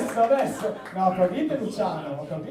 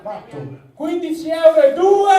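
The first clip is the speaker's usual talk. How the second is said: auctioneer call; 6 semitones higher, 12 dB louder than usual. Acted. Auctioneer raising bids.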